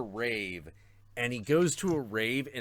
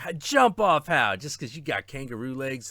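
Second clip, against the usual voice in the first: incredulous; 4 semitones higher, 6 dB louder than usual. Retold or imitated. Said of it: "he's like".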